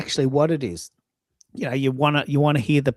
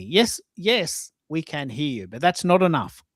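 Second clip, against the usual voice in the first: mock exasperation; 2 semitones higher than usual. Host replying to a caller who keeps checking, mock exasperated. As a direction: answer the caller with acted impatience.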